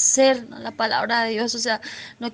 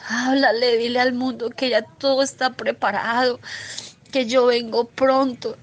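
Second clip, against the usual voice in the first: tearful retelling. Retold or imitated. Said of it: "me decía".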